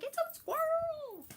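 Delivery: very high, drawn-out mock wail; squealed excuse. Driver defending her sudden braking to husband, high mock squeal. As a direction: wail it in comic panic, stretching the last word. Retold cry while braking for squirrel.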